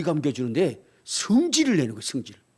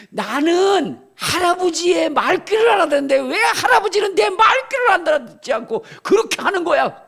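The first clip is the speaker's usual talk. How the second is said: put-on higher, louder child's tantrum; angry grandson; 12 semitones higher, 6 dB louder than usual. Grandfather voicing the grandson's outburst during a bath. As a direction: shout it like an upset boy. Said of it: "이가 성질을 낸 것처럼".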